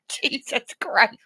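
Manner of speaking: soft slow whisper. Real, not acted. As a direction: whisper it in disbelief. Whispered exasperation.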